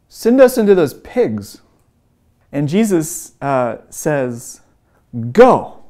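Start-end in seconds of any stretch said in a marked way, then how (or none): 0.1-1.6 high, loud retold plea; imitated frightened outburst; terrified demons. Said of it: "these demons are terrified of Jesus". 5.3-5.8 single loud, high-pitched order; sudden retold command, much louder. Jesus orders the demons out.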